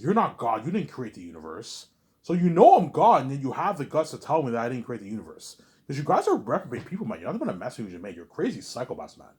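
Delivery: mock angry brother outburst; imitating a mad brother. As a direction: play the furious brother scolding him. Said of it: "he was, like, mad".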